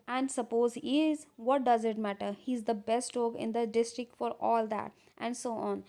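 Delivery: reads the English lines out slowly and carefully; deliberate read-aloud of a script; measured reading of a classic play. Acted. Slow reading of play text.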